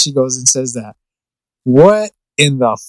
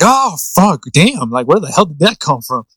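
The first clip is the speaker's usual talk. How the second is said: Danny Glover. Retold or imitated. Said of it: "And I'm like".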